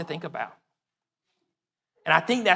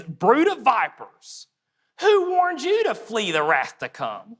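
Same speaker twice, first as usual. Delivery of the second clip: sarcastic mock challenge to the crowd; sarcasm; 3 semitones higher, slower than usual. John the Baptist to Pharisees and scribes, sarcastic. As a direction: throw it out as a biting question. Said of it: "That's sarcasm".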